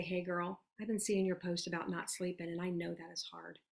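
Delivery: soft, sympathetic voice to a friend; easy, low-key personal voice message; caring reach-out. Acted. Coach voicing a sample message to a tired mother, caring and soft. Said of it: "That's an intentional reach out that I would do to somebody".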